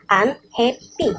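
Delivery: slow, syllable by syllable; syllables spelled out. Shown as a demonstration. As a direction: break unhappy into its syllables. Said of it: "it has three syllables".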